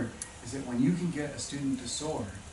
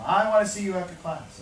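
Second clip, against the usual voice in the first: higher, louder mock yell; retold teacher yell; 5 semitones higher, 6 dB louder than usual. Teacher to a fidgeting boy after class, mock yell. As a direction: imitate a teacher calling out a pupil. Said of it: "the teacher yelled at him".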